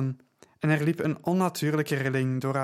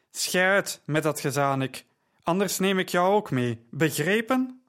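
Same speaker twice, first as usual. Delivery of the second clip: growling threat; 4 semitones higher than usual. Acted. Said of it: "stond de leider grommend stil".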